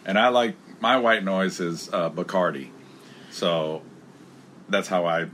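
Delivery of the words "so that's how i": drink in hand, ice rattling; sipping with ice clinking. Real, not acted. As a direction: talk between sips of a drink. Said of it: "you might hear ice clinking in the background".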